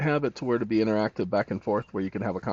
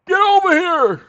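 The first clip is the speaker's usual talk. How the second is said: high, loud game fighter shout; Scorpion yell; 12 dB louder than usual. Retold or imitated. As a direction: bellow it like the Mortal Kombat ninja. Mortal Kombat Scorpion quote.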